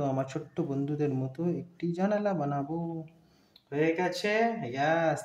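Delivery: put-on sing-song voice for little kids; reading to a toddler. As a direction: talk like to a small child, gently. Drawing lesson for small children.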